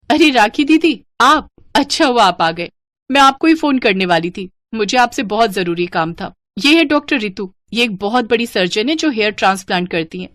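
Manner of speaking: lightly voiced, lively younger sister; friendly younger sister. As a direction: greet your sister brightly and make introductions.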